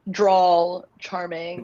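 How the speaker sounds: slow Southern drawl, stretching each word; drawn-out drawl. Shown as a demonstration. Teacher drawing out the phrase for a learner, slow drawl. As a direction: drag the words out like a Southern drawl. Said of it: "yeah, Southern drawl".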